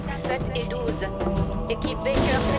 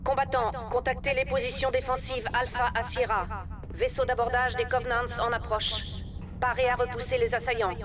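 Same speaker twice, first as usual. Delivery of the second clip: annonce d'alerte par interphone; voix d'alarme diffusée à bord; alerte haut-parleur; 13 semitones higher, 4 dB quieter than usual. Acted. (annonce d'alerte au haut-parleur)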